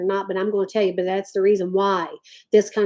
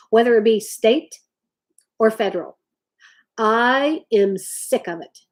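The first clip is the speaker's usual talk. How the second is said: slow, with long dramatic pauses; slow, heavy build of passion; passionate, drawn out. Real, not acted. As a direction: lay it on with weighty pauses. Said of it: "y'all hear the passion in my voice".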